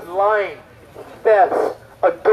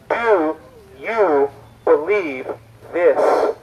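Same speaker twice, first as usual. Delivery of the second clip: lower, slow, word-by-word question; solemn question; 5 semitones lower, much slower than usual. Acted. Jesus asks all of us standing here, solemn. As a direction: leave a pause between the words, dropping in pitch.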